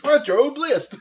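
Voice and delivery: radio show drop, laughing; morning zoo jingle. Shown as a demonstration. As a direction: punch it like a radio station tag. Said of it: "like it's a morning zoo show".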